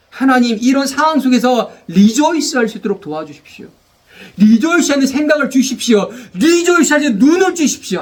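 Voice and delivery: earnest prayer rising in pitch; model prayer. Shown as a demonstration. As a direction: pray it as an example for the church. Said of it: "기도해야죠".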